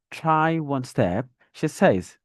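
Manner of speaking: "step" drawn out slowly and lifted up; teacher modelling an open, rising "step". Shown as a demonstration. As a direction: slowly take "step" up, then finish with "she says". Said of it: "I took it up".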